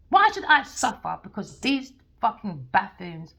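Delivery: loud, emphatic declarations with hard-hit openings; heated soapbox insistence; impassioned rant. Real, not acted. Impassioned rant against taking sides.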